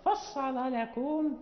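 فصل لكم drawn out, each lam thick; slow heavy lams. Shown as a demonstration. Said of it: "هذه اللامات كلها مغلظة".

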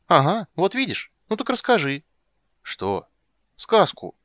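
put-on high, loud childish nagging; a girl pestering; demanding little girl. Ciri to Geralt, high loud nagging. Ciri's voice.

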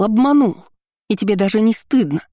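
angry shout. Acted. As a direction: shout the repeated word at him. Quarrel, accusing him. (яростный выкрик)

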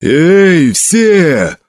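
a mighty voice rallying the garrison; mighty bellow. A narrator's reading. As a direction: bellow the orders to the whole crew. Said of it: "заорал своим могучим голосом".

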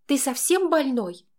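high, drawn-out indignant question; shocked disbelief. A narrator's reading. Girl appalled by Max's demand, shocked disbelief.

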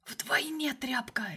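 slow contemptuous whisper; sneering whisper. Acted. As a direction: hiss it slowly from the dark. The shadow sneers again.

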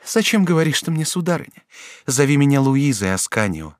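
duchess pleading. A narrator's reading. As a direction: lure him with tender promises. Duchess dialogue. (герцогиня страстно уговаривает юношу)

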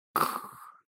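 a dry unvoiced "khh" cough; a sudden throat-clearing hiss; sharp throat-clear. A narrator's reading. A man clears his throat behind the heroine, short unvoiced "khh".

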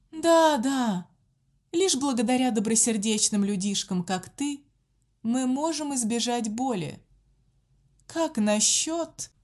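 a monster savoring it; sinister gloating. A narrator's reading. Nun gloating, changing voice.

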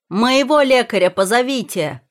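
loud, high urgent call; shouted order. A narrator's reading. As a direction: shout for the doctor in alarm. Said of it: "крикнул муж". (громкий тревожный крик)

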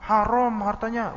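mock child, slowly spelling it out; child's blunt answer. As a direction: say it like an innocent child stating a fact.

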